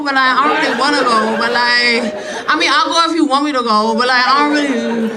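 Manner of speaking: a hint of an indecisive teen going back and forth; imitating the daughter. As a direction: waffle endlessly like a teenager. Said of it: "she just talked like".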